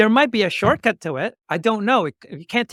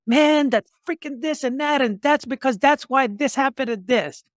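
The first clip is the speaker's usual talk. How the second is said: higher-pitched mock griping; mock blaming; 7 semitones higher than usual. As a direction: imitate someone piling up excuses. Acting out people blaming everything.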